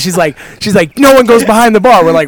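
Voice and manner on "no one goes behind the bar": mildly raised, higher imitation of yelling; mock a scolding bartender; retold yelling. Bartender to customers behind the bar, retold mild yell. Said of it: "She's yelling at us".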